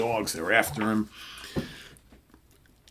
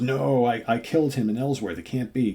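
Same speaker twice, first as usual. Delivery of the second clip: higher, insistent mock disbelief; acted alarmed denial; 4 semitones higher, 4 dB louder than usual. Killer insists he killed this man, acted alarmed denial. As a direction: protest as if rattled by a ghost.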